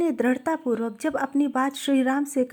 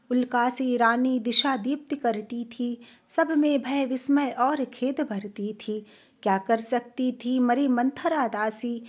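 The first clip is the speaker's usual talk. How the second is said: slow, measured verse reading; unhurried, metrical poem recital; poetry recitation. Acted. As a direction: recite the Hindi verse slowly, line by line. Recites verse before explaining it.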